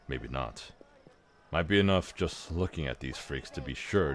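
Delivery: a hint of a gruff half-orc; lightly voiced mocking half-orc; Ragongar voice. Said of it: "I can only do the Ragongar voice".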